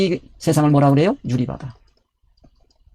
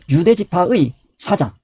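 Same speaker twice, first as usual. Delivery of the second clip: slow solemn reading; 2 semitones higher, much slower than usual. Acted. Preacher reading scripture weightily.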